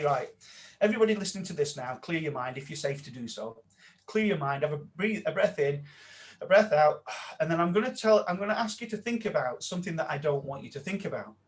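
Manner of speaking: calm instructor leading a listener exercise; guided exercise voice. Shown as a demonstration. Trainer demoing his course exercise, calm and guiding. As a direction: talk them into clearing their mind. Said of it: "So if I say this".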